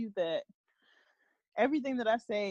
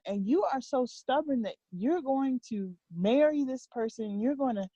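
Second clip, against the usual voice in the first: lightly voiced exasperated parent, going on and on; higher, emphatic scolding with sweeping pitch; God; 4 semitones higher than usual. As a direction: imitate a frustrated lecture to a stubborn child. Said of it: "he just keeps going on".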